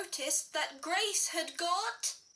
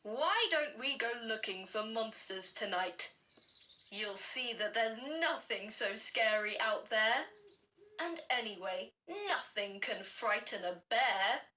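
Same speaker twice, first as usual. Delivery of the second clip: daddy bear; 4 semitones lower than usual. Acted. Daddy Bear voiced in story.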